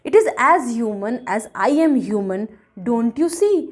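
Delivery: slow, emphatic verse reading; deliberate poem reading; poem recitation. A narrator's reading. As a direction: recite slowly, setting each phrase apart. Reads the poem aloud.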